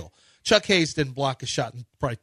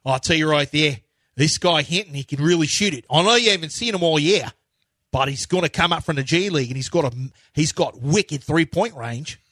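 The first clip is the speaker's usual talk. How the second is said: put-on Australian accent. Mock Australian pitching a G League shooter. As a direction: sell the player like an Aussie teammate. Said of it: "Jock Landale accent".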